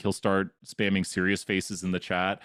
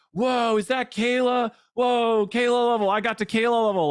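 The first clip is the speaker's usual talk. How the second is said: high, loud amazed gushing; excited chat reaction; 13 semitones higher, 5 dB louder than usual. Retold or imitated. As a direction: gasp it out like an awed fan. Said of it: "people are like".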